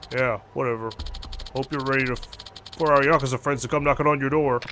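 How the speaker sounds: lightly voiced debt collector; a hint of a thug on the phone; menacing loan shark.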